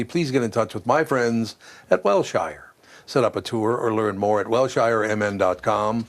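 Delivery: measured, even sponsor read; radio host's live endorsement read. Real, not acted. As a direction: read the sponsor copy with steady emphasis. Host resumes the sponsor ad.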